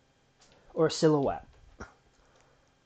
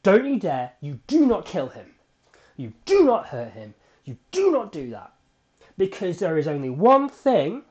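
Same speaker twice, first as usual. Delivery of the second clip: 1 shouting at the TV; 2 semitones lower, 4 dB louder than usual. Retold or imitated. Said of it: "I start shouting at the T V".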